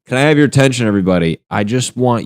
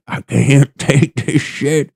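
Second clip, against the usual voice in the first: exasperated; 6 semitones higher, 4 dB louder, slower than usual. Retold or imitated. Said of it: "that we're like".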